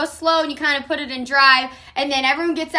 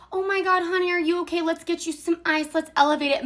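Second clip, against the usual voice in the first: gentle doting mom; 2 semitones higher, 5 dB quieter, faster than usual. Retold or imitated. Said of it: "not the kind of mom that is like".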